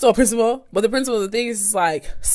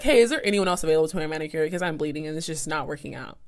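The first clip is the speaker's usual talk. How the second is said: polite request; 3 semitones lower, 6 dB quieter, faster than usual. Retold or imitated. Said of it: "I was very polite".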